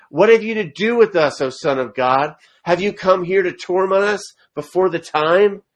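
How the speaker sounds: loud, high, hammed-up demon cry. Preacher voicing the demons crying out, loud and high.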